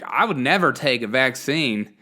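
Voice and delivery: lightly put-on accent with swooping pitch; slightly hammed-up politician's accent; Kamala Harris accent. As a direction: quote her in a mildly exaggerated mock accent, breaking into a laugh. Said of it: "I don't know why I gave her that accent".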